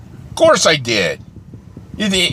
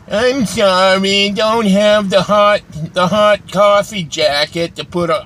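drawn-out, dopey imitation of the barista; mock barista; 4 semitones higher, slower than usual. Ranting customer mimics the zoned-out barista, drawn-out mocking voice. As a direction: sound half-asleep and slowed down, mocking her.

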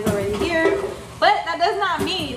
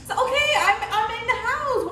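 laughing protest; 10 semitones higher than usual. Real, not acted. Caught on camera, laughing.

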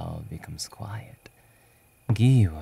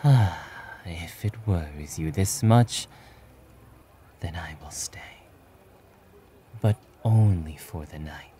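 reluctant hero relenting; 2 semitones lower than usual. Acted.

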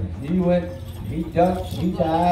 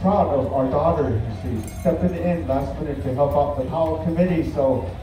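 measured arena announcer address; powwow emcee. Real, not acted. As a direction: speak to the whole arena, unhurried. Emcee speaks over the arena PA.

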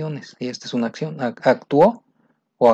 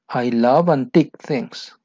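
slow again, love stressed; steady slow model; slow repeat; 3 dB louder than usual. Shown as a demonstration. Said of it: "dialogue line read twice".

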